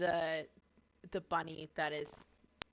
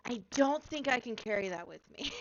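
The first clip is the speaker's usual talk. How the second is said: higher and louder, a touch let down; dismayed little girl; 6 semitones higher, 6 dB louder than usual. Acted. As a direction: say it like a kid realising the toy won't fit. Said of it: "and she goes".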